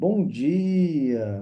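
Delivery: Bom dia with vowel of dia stretched long. Demonstrating the stretched-vowel technique for phone greetings: drawn-out vowels in 'Bom dia'. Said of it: "Tem que pegar uma vogal e falar mais demorado".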